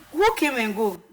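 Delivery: loud, forceful demand for an answer; indignant challenge. Real, not acted. Confronting someone over "some people came", loud and indignant. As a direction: throw the accusation straight back, loudly.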